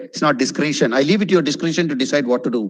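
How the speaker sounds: discretion as "dis-KREE-shun"; long "ee" in discretion, sentence quick; wrong pronunciation. Shown as a demonstration. Teacher giving a wrong example, discretion mispronounced.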